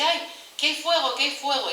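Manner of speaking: a hammed-up fright as the tail catches fire; startled cry. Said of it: "se asusta y dice". (grito asustado, algo exagerado)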